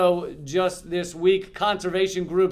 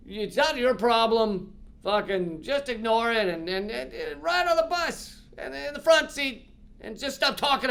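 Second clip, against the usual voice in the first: higher mock scolding voice, a touch hammed-up; disapproving old-timer; 5 semitones higher than usual. Bystander of the past scolding a white ally, mock disapproving nag. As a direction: nag the troublemaker like a fifties bystander. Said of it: "that's how they talked back then".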